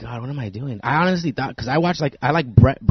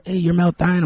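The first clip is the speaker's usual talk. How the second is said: higher-pitched mock fan greeting; fan recognition, imitated; 5 semitones higher than usual. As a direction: imitate someone spotting a celebrity. Fan recognizing him, retold.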